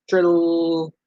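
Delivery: trilled frog sound; gray tree frog call. Retold or imitated. Teacher reading to kids, trilling like a gray tree frog. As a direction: roll it out like a frog's trill. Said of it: "a gray tree frog says".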